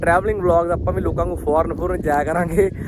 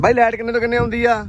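raised, high-pitched call; 6 semitones higher than usual. Real, not acted. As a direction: call the question across to someone. Calling a question across fields. (ਉੱਚੀ ਸੁਰ ਵਿੱਚ ਹਾਕ ਮਾਰ ਕੇ)

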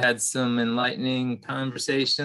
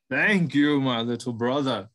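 grateful buffalo. Acted. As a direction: thank him like an old friend. Buffalo thanks the mouse.

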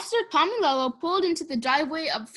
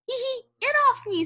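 high, fast giggle as he begs; giggling protest; 11 semitones higher, faster than usual. A narrator's reading. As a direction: laugh out the plea, squirming. Pig sitting on him.

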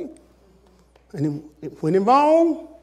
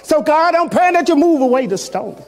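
fervent prayer; 3 semitones higher, 3 dB louder than usual. Acted.

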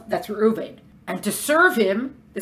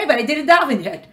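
laughing protest; 5 semitones higher, 4 dB louder than usual. Acted. Replying to the temptation, laughing.

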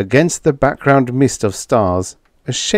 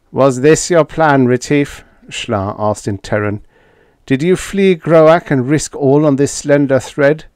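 higher alien voice, incredulous; alien Schla; 5 semitones higher, 4 dB louder than usual. A narrator's reading. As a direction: play the alien in disbelief.

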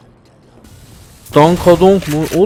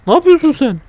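much higher, loud shriek of disbelief; disbelieving shriek; 8 semitones higher, 6 dB louder than usual. Real, not acted. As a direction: squeal at it in shock.

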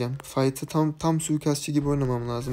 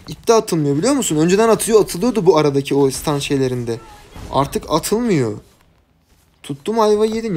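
louder exasperated complaining; annoyed rant; 3 semitones higher, 4 dB louder than usual. Real, not acted. Streamer complains to viewers about endless stuns, louder exasperated rant. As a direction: grumble hard about the stuns. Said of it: "O sinir oluyorum yani".

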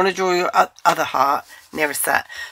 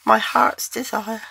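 cartoon princess; 6 semitones higher, slower than usual. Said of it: "I sound like a princess".

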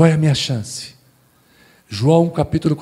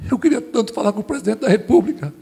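a touch of a tearful plea, raised pitch; sobbing man; 6 semitones higher than usual. Retold or imitated. Man weeping on the palace ramp begs to see the president, tearful. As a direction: voice the weeping man lightly lifted and pleading. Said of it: "Aquele homem, soluçando".

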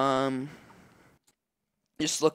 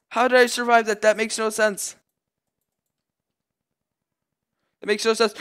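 high, loud astonished cry; can't believe you survived; real amazed disbelief; disbelieving; 7 semitones higher, 5 dB louder than usual. Real, not acted.

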